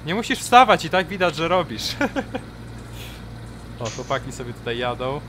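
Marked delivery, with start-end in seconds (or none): 0.1-1.8 teasing shout. Real, not acted. Teasing worker across field. 1.9-3.8 high giggle. Real, not acted. Laugh after teasing.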